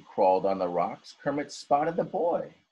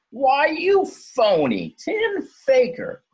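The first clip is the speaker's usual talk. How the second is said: high, slow, growly crab voice; growling old crab; 7 dB louder, much slower than usual. A narrator's reading. Grumpy old crab growling at a tin can. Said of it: "growled the old grump".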